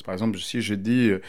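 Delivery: usual speaking voice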